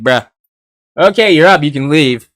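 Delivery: flat, bored bruh-style brush-off; dismissive. Retold or imitated. Ichigo casually tells the kid to go, half-bored. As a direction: wave him off like he doesn't care. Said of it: "he's just like".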